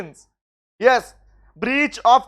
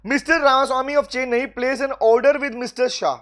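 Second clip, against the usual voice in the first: slow question reading; much slower than usual. Shown as a demonstration. Teacher reads exam question aloud.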